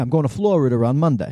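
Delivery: accent of New York. Showing how New Yorkers say a sentence, in a New York accent. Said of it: "New Yorkers do that".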